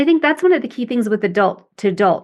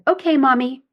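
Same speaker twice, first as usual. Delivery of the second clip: sweet; 3 semitones higher than usual. Retold or imitated. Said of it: "smiled sweetly".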